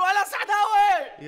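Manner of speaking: creature's call. Retold or imitated. Waiter imitating the monster calling people, slow eerie call. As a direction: call out like a beast luring its prey. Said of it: "وتنده علينا كده وتقول".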